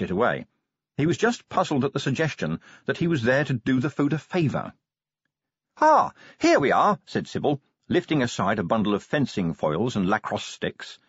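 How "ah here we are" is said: pleased find. A narrator's reading. Sybil finds the scroll.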